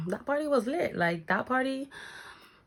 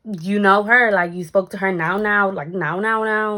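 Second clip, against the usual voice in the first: incredulous; 8 dB louder than usual. Retold or imitated. Disbelieving the guy's claim.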